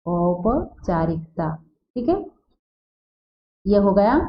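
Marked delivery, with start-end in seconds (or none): 0.1-1.5 औपचारिकता slowly in pieces, "au-pa, chaarikta"; slow teacher's repeat of औपचारिकता; correct pronunciation. Shown as a demonstration. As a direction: break up औपचारिकता for the class. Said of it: "क्या होता है".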